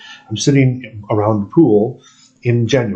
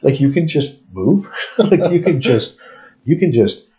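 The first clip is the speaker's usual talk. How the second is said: higher, wide-eyed questions; amazed disbelief; 3 semitones higher than usual. Retold or imitated. Retold amazed question to guy.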